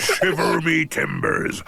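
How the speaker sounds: lightly voiced pirate; a hint of a hoarse pirate. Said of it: "that pirate voice".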